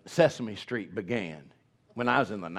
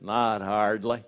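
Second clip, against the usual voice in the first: John Wayne; 2 semitones lower, slower than usual. Retold or imitated. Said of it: "that thrills me".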